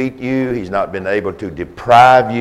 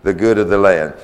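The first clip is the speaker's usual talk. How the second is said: Nashville accent; faster than usual. Shown as a demonstration. Preacher to congregation, in a Nashville accent. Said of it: "that's with a good Nashville accent there".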